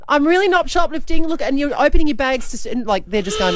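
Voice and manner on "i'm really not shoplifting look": high, flustered protest; mock frantic shopper, much higher; pleading innocence. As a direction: overcompensate to strangers. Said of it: "trying to justify to all these people".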